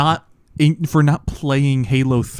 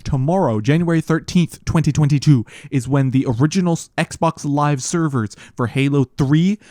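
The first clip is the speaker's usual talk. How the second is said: solemn announcement. Acted. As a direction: announce it like a somber memorial. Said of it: "Why are you talking like that?".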